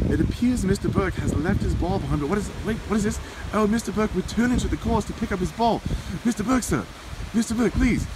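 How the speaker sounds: shouting over wind. Real, not acted. Reporter calling over the wind for a post-round interview. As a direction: raise the voice against the wind.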